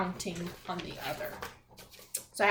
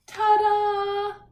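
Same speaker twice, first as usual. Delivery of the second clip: high, bright ta-da with a gasp; 10 semitones higher, 7 dB louder than usual. Acted. Teacher revealing the book's last page to kids, a showy ta-da. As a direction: present it like a magic trick. Book reveal read to class.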